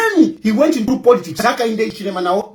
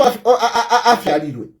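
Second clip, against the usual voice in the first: laughing mid-word; 2 semitones lower, faster than usual. Real, not acted. Mocking widow, laughing.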